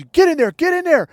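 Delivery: high, loud mock teacher yell; retold barked order. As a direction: shove the kid along with your voice. Teacher shoving the kid, retold.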